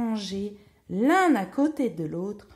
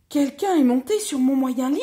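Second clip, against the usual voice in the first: moderately raised middle bear voice; higher and louder, but not a bellow; medium bear's cry; 5 semitones higher, 7 dB louder than usual. A narrator's reading. Middle bear finds his bed disturbed, medium cry. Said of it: "cria de sa moyenne voix".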